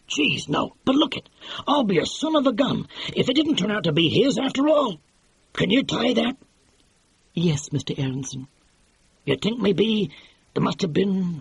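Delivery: lightly voiced excitable producer; brash film producer. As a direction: sell it like a fast-talking movie boss. Producer puzzling aloud.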